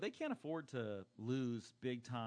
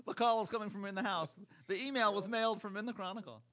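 horror movie voice; 9 semitones higher, 7 dB louder than usual. Pretend. Horror-movie parody line.

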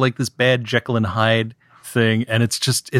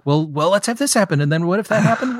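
mocking the writers; 7 semitones higher, faster than usual. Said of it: "every step is sort of like".

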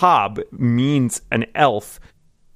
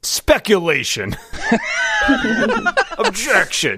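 mock courtroom objection.

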